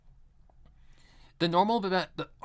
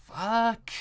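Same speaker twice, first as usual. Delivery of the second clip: mock shock, swinging up sharply on the last word; disbelieving outburst; 7 semitones higher, much slower than usual. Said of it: "I'm like".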